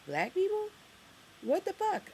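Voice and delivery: high, incredulous outburst; outraged disbelief. Real, not acted. Vlogger ranting to viewers about Harlem, shocked high outburst. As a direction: shriek of disbelief at a changed neighborhood.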